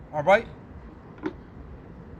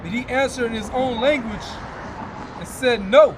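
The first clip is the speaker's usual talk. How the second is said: scripture reading. Acted. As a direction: intone the verses like a preacher at the pulpit. Reads scripture aloud.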